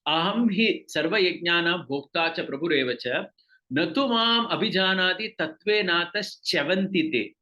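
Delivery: measured chant of the Sanskrit verse; verse recitation. Acted. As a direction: recite it slowly like scripture.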